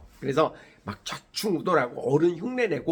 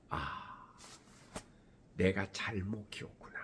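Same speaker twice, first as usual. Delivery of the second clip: regretful sigh; 7 semitones lower, 15 dB quieter, slower than usual. Retold or imitated. Parent's inner regret.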